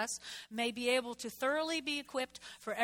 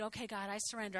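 softer surrender; 3 semitones lower, 7 dB quieter, faster than usual. Retold or imitated. Praying surrender to God.

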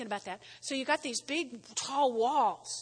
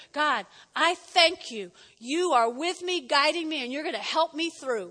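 model grateful prayer; 3 semitones higher, 3 dB louder than usual. Shown as a demonstration. Pastor modelling a prayer of thanks, sincere. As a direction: pray it sincerely. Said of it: "Instead of being mad at God".

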